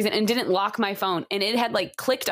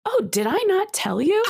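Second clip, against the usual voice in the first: imitating Casey; 8 semitones higher than usual. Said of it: "she's like".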